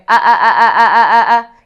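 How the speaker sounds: loud pushed ah, ah from the throat; the wrong way, squeezed from the throat; throaty ah. Shown as a demonstration. Voice coach shows the wrong loud throat-pushed ah. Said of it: "not coming out from your throat".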